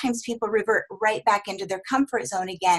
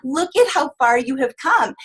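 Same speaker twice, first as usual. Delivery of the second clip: bring the energy; 5 semitones higher than usual. Shown as a demonstration. Coach showing trainees how to cheer a client, excited. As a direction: pump them up with delight. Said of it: "you need to bring the energy like".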